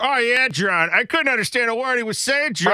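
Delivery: high-pitched mock Boston gripe; Boston accent. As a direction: do an exaggerated Boston complainer. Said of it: "someone from Boston saying".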